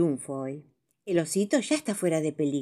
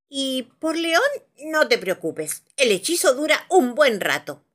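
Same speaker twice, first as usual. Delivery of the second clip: reassuring wizard; 7 semitones higher, 5 dB louder than usual. Acted. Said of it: "le aseguró el mago".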